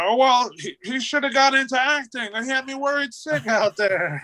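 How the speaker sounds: high, huffy mother voice; fussing mom. Retold or imitated. Mom telling the wrestlers her son should act, high and huffy. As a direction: scold him like a relieved mom. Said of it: "And she's like".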